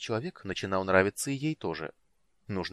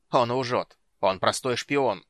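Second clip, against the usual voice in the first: angry; 3 semitones higher, 6 dB louder, slower than usual. Acted. Night lord accuses Raistlin.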